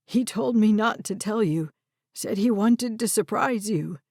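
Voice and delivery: lightly voiced old man, upset and ashamed; frightened old man. Red admits to Harper that he trusted Derek, lightly voiced upset old man.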